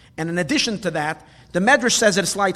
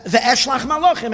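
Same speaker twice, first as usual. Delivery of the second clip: emphatic rewording; 5 semitones higher, 6 dB louder than usual. Shown as a demonstration. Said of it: "would have just said these words".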